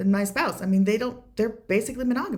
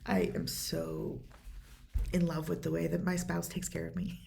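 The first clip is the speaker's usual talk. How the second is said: holding back tears, slowed and softer; choked up; 2 semitones lower, 8 dB quieter than usual. Real, not acted. Choked up while telling about the spouse's care. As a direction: voice tight and quiet with real tears. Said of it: "Sorry, I get choked up about this".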